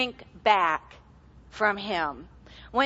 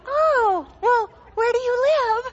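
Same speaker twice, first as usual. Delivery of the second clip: mock reluctant offer; 10 semitones higher, 4 dB louder than usual. Her own reluctant offer, retold.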